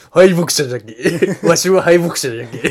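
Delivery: slow, lightly voiced old pirate; mock a weary old sea dog; creaky wise old man. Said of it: "エースの敗北者の話".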